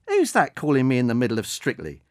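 huffy pensioner annoyed at the phone; cross old woman. Acted. Old lady cross at a call during her show.

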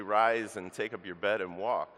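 a healer's ringing order; commanding call. Shown as a demonstration. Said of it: "or to say".

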